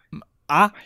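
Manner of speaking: unvoiced whispered vowel. Shown as a demonstration. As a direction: whisper the sound to yourself. Trying the vowel.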